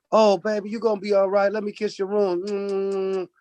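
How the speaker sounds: imitating sweet fussing over a fallen child; mock comforting mother. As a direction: coo it like a doting aunt. Voicing adults comforting a girl.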